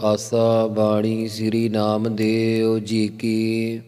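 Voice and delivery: slow, measured reverent recitation; scripture recitation. Acted. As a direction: intone the opening verse slowly. Opening invocation recited slowly. (ਹੌਲੀ ਸ਼ਰਧਾ ਭਰਿਆ ਪਾਠ)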